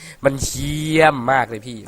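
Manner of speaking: เยี่ยม stretched long and slow, imitating a viewer; drawn-out viewer quote. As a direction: drag out เยี่ยมมากเลยพี่ slowly like a fan comment. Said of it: "มันลากเสียงสูงนะ". (ลากเสียงยาวเลียนแบบคนดู)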